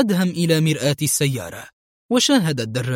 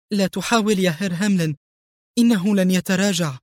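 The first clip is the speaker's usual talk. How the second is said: tense; 5 semitones higher than usual. Acted. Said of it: "وقد بلغ توترها مبلغه".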